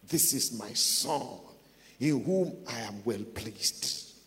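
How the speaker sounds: slow, low solemn pronouncement; measured, drawn-out divine announcement; voice from heaven. Acted. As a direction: lightly voice a heavenly declaration, slowly. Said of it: "the Bible says there is a voice".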